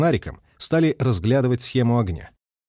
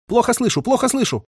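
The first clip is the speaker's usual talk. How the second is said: high-pitched chanting call sign; high, rhythmic signalman's calling; radio recitative; 11 semitones higher than usual. A narrator's reading. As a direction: repeat it like an insistent radio operator. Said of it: "речитативом доносился голос радиста".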